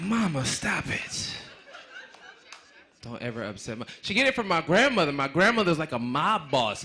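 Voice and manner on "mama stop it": put-on pleading kid.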